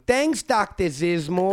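put-on slow, drawn-out Long Island accent; imitating a Long Island lady. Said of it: "a woman with a very thick Long Island accent going".

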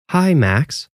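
small robot voice; speech device voice, mechanical; robotic voice. A narrator's reading. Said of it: "the robotic voice said".

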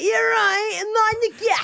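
mock Asian woman accent that climbs high and stays there. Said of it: "I always end up just being like".

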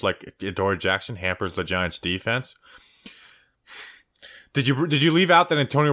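scornful mock confrontation; heckling retort. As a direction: tear into an absent opponent, easing off as it goes. Heated retort to the tweet's writer.

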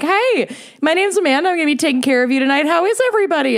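bright high server greeting, rushed; perky waitress welcoming the table; chirpy server voice. Retold or imitated. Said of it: "A server goes up to the table and is like".

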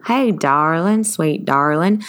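lightly voiced Southern granny; a hint of Southern grandparent. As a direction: practise a Southern drawl on the endearments. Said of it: "grandma, grandpa voice".

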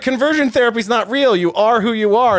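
high-pitched mocking imitation; mocking quote. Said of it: "they're just like".

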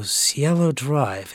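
slow, drawn-out puzzled echo of the street name; slow puzzled repeat. Retold or imitated. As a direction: repeat the name slowly, not quite placing it. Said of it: "at the time it didn't register".

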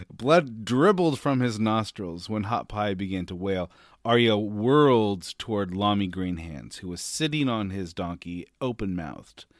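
measured audiobook-style reading; story narration. A narrator's reading. Co-host reads the fight passage to the professor, story narration. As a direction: read the passage aloud as a storyteller.

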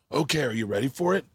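understated seductive warning; mock-sexy build-up, falling in pitch; imitated dirty talk. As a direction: tease the opponent, imitating a flirty coach. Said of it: "He dirty talks them".

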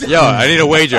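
loud hyped call; excited shout. Real, not acted. Calling for a bet.

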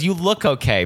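put-on old lady unsure about a runner; imitating old lady. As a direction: hesitate like a kind old lady. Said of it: "she goes".

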